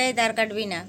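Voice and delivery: loud scolding of a pet; scolding the cat. Real, not acted. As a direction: snap at the cat to stop. Scolding a cat under the bed.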